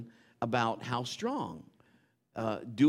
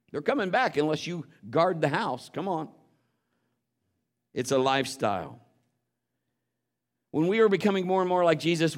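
loud, raised preaching voice; full-force preaching; 5 semitones higher, 6 dB louder than usual. Acted. Preacher tells the church about daily habits, loud. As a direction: preach it out with energy.

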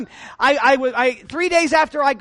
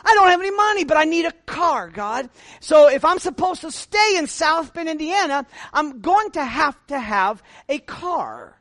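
pleading prayer; 5 semitones higher, 4 dB louder than usual. Retold or imitated. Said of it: "I just told God".

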